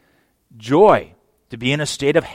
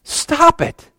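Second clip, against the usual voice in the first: higher and louder sharp rebuke; firm raised "Stop it"; stern command; 14 semitones higher, 5 dB louder, slower than usual. Acted. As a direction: snap them out of it. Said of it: "He says".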